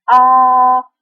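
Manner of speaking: A held high, level and long; first tone A. Shown as a demonstration. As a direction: hold "A" on one flat high pitch. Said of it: "Jadi seperti ini".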